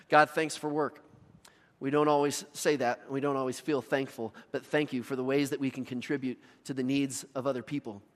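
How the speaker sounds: earnest spoken prayer to God; earnest closing prayer. Acted. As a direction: pray it sincerely for the congregation.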